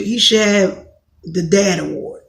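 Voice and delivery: normal talking voice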